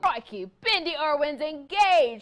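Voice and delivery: playful, high-pitched put-on Australian accent; little Australian accent. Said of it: "That's my little accent for you".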